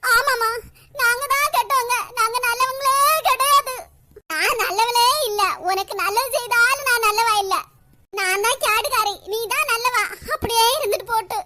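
wounded, sarcastic self-blame; bitter sarcasm. Acted. Mother sarcastically calls herself the villain to her son, bitter and hurt. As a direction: throw the blame on yourself, bitterly.

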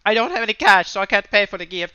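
lightly voiced sheepish Luigi; apologetic little brother, barely put on; hint of a Luigi voice. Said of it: "I kinda like that voice".

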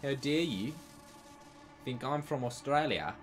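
mock-indignant South African; playfully offended South African voice; mock South African accent. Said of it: "I'm clearly from South Africa".

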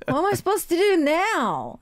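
mock helpless wail; helpless bewilderment. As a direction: act out not knowing what to do. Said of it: "their mind goes blank".

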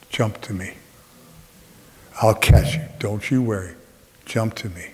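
a hint of a calm, low-voiced dad; lightly voiced father. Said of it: "my father's standing there".

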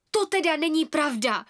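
put-on a child's indignant cry; the twins crying out in protest; exclaiming together. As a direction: protest loudly as one. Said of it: "vykřikla dvojčata".

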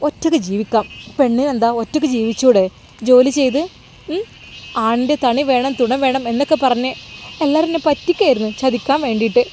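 insistent hurt woman, lightly acted; hurt, embittered Nuseba. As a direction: mildly protest as a woman done with men. (ചെറുതായി അഭിനയിച്ച വേദനയോടെ തറപ്പിച്ച്)

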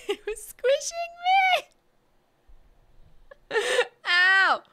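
high, loud laughing complaint; laughing pain. Real, not acted. Showing viewers the marks on her fingers, laughing in pain. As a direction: laugh through a small ow. Hand squeezed by robot, laughing.

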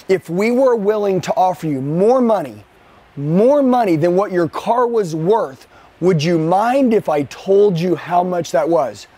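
slow pitch, leaning on each phrase; slow, weighty pitch. Shown as a demonstration. Salesman to customer on the phone, drawn out slowly. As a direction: let the offer land slowly.

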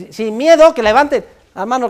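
miedo pitched high and loud; coaxing high. Shown as a demonstration. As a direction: lift sin miedo high to coax. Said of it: "Pero sin miedo".

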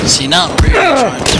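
put-on high, loud South American accent; a bad go at a South American accent. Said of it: "worst attempt at an South A-, American accent".

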